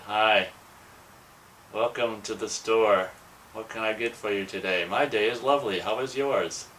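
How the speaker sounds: forced cheerful cashier greeting; fake customer service voice. Shown as a demonstration. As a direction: put on a fake shop smile. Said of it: "That's my shit-eating, shit-eating fake bullshit".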